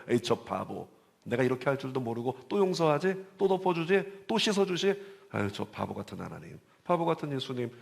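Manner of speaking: scoffing, taunting jeer; mocking sneer. Inner sinner mocking Jesus, a scoffing sneer. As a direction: sneer at God as a fool.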